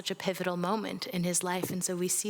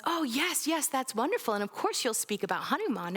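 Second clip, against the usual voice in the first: guru's voice; 6 semitones higher than usual. Retold or imitated. Guru voiced in retold story.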